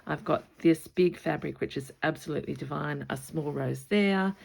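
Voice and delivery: loud, brisk, bubbling excitement; excited and loud, stretching out key words; real excitement. Real, not acted. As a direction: gush over lovely things, voice lifted. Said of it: "Can you hear it in my voice?".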